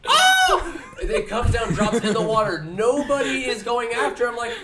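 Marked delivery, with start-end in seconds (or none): 0.1-0.8 surprised oh. Retold or imitated. Spotting the ball in sky.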